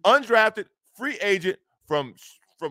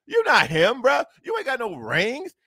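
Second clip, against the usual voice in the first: shouting it higher and louder; real shout; 4 semitones higher, 4 dB louder than usual. Real, not acted. Host yelling at the coach who talks big, loud rant. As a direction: call him out with a loud burst.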